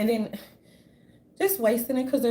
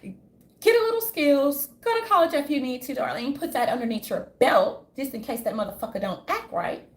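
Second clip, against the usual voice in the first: Karen impression; 3 semitones higher than usual. Mocking a Housewives Karen to viewers, light put-on posh voice. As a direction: mimic a condescending Karen. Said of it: "she's like".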